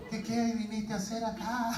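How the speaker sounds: mock manly nerves. Pastor fearing he will be hit, mock manly voice. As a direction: stammer it, comically unmanly. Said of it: "con esa voz bien varonil".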